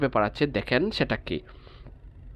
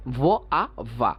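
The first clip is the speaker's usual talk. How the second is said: broken into sounds; 3 semitones lower, slower than usual. Shown as a demonstration. Teacher showing where the syllable ends, sound by sound. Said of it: "সেখানে থেমে যাব".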